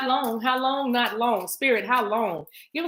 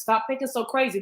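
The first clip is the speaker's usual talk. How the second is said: a hint of a scolding inner critic, pitched up; 5 semitones higher than usual. Reader's own inner critic, lightly voiced and scolding. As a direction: nag yourself like the doubting voice inside. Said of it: "I talked about that inner critic".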